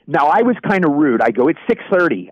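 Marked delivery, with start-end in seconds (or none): 1.5-2.3 curt. Retold or imitated. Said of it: "I said it kinda curtly".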